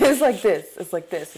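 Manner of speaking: put-on playful stab at a Boston accent. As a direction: do your best Boston accent. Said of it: "that's my best Boston accent".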